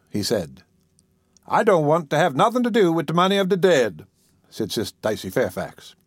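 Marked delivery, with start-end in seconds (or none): 1.5-4.1 higher-pitched dialect protest. Acted. Caretaker refusing money of the dead, protesting. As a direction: object with a touch of indignation.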